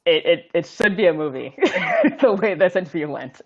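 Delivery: talking through light laughter; amused. Real, not acted. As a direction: let a chuckle break into the words. Joking about the interview, laughter heard.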